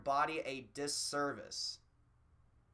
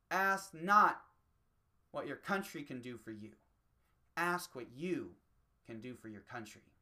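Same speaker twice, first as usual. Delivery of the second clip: oratory quote; 3 semitones lower than usual. Retold or imitated. Quoting a president's speech to his nation, lightly grand. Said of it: "a wise man fucking told us".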